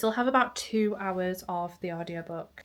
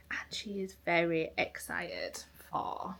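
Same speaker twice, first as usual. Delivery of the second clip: whispering; 9 dB quieter, slower than usual. Real, not acted. Talking softly near the dog.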